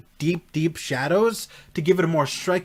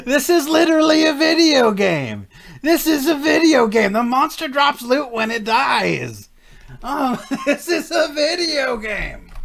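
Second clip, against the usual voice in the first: laughing hard; 8 semitones higher than usual. Real, not acted. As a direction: crack up while saying it. Laughing at monster dropping loot.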